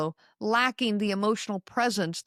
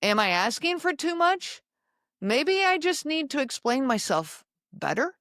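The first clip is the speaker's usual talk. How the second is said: self-doubting; 5 semitones higher than usual. Retold or imitated. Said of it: "you start wondering".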